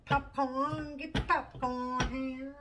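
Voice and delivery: loud, high popcorn hawker; playful ballpark vendor shout; mock vendor call. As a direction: call out to the stands, drawing it out.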